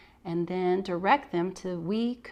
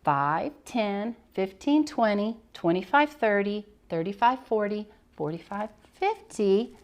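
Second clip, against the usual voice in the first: counting aloud. Shown as a demonstration. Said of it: "This student then would sit down".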